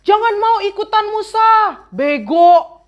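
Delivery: rude mocking taunt; high, fast mock taunt; sneering insult. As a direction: spit it out like a bratty kid.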